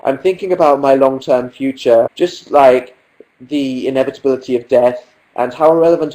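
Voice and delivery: lightly voiced upbeat vlogger intro and outro; parody vlogger. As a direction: play a chirpy YouTuber slightly hammed up. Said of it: "that would be my vlog".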